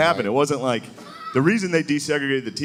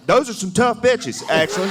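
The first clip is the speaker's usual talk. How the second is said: mock impressed fan; 8 semitones higher than usual. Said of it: "everybody down there tomorrow would be like".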